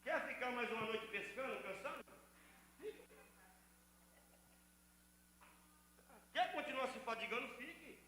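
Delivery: a quiet dare to the tired; hushed challenge. Acted. Pastor quietly daring the weary listener to stay, soft.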